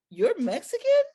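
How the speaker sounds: high, loud disbelieving question; high stunned you're Mexican; shocked question. Retold or imitated. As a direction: gasp it out in shock. His retold shock.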